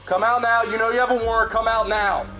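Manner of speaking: barking police commands. Real, not acted. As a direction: bark it at him. Police ordering suspect out.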